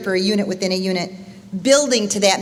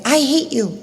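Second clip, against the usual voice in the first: higher mimicked child's outburst; lightly voiced echo; 4 semitones higher than usual. Echo throwing the boy's words back, lightly mimicked outburst. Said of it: "the voice he hears come back".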